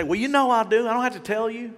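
high, loud defensive excuse; mock brush-off. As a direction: act out a dad waving it away. Acts dad's excuse for not saying it.

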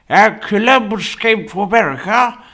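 lightly hammed-up history recap; mock history recital. Mock retelling of American history.

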